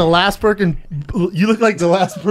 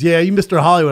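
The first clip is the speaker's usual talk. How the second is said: louder, lightly mocked Southern accent; Southern boy; 7 dB louder, faster than usual. Southern stranger needles the newcomer, lightly imitated Southern. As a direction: imitate a loud Southern heckler a little. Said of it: "real Southern boys".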